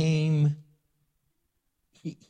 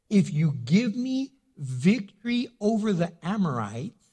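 raised, slow solemn reading of the vow; a warrior swearing an oath to God, raised and slow; 4 semitones higher than usual. Acted. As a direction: intone the vow like scripture. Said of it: "this is what he says".

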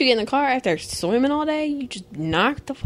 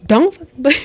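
mock shout; 6 semitones higher, 11 dB louder than usual. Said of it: "She said".

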